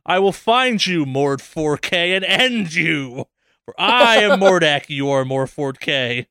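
slow, drawn-out mock menace; hammed-up warlord vow; mock villain threat. To the gamer tag thief, a hammed-up villain threat.

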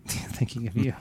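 said through a laugh; chuckling while repeating it. Real, not acted. Repeating Ivan's suggestion, laughing.

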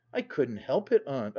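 ordinary delivery

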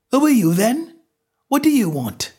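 a hint of shaky fear; quavering voice. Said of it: "he asked in a quavering voice".

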